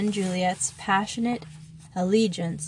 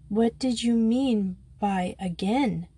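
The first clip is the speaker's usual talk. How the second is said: slow, pressing question; firm demand; 2 semitones higher than usual. Acted. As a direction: demand an answer, slowly. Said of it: "demanded the Austrian".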